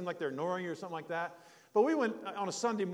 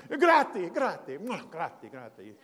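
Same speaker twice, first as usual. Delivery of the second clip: grateful thanks; 6 dB louder, slower than usual. Retold or imitated. Thanking the old Italian man.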